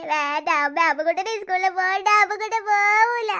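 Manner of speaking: low, slow sulky whine; sulky boy refusing. Acted. Little boy refusing school to his mother, sulky and slow. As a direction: drag it out like a sulking toddler.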